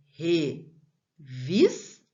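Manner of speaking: revista slowly as RE, VIS, TA, with gaps; syllable breakdown. Shown as a demonstration. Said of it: "paroxítona".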